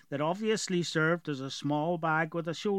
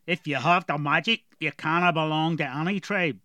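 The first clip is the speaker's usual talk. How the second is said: put-on gruff dwarf with a heavy rural accent; strong dwarf accent; 5 dB louder than usual. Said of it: "Galoric had a very strong accent".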